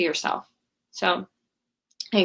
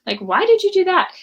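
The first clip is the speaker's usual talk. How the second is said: mock baffled parent, pitch climbing; surprised; 3 dB louder, slower than usual. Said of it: "you're like".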